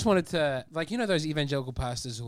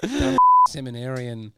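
laughing; 5 dB louder, slower than usual. Retold or imitated. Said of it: "I'd take".

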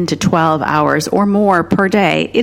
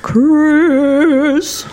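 playful whisper; 9 semitones higher than usual. Real, not acted. Teasing name-calling back and forth.

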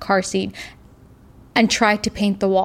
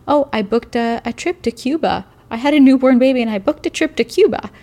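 rising, louder burst of glee; excited; 4 semitones higher, 4 dB louder than usual. Real, not acted. Telling the interviewer about booking the trip, excited and louder. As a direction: blurt it out, thrilled at her own daring.

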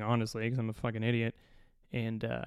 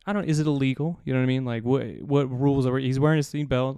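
exasperated retort; 7 dB louder than usual. Retold or imitated. Arguing with the gate guard.

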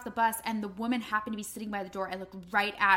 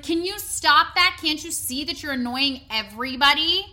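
imitated scolding woman; 4 semitones higher, 6 dB louder than usual. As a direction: scold the kids like an irritated passenger. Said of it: "This old woman turns around".

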